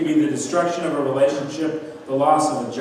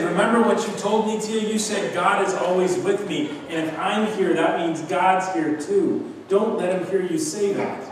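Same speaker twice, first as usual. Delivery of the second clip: put-on higher, earnest little boy; boy reminding his aunt, lightly voiced child; 5 semitones higher than usual. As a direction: speak as a six-year-old reasoning gently. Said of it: "He said".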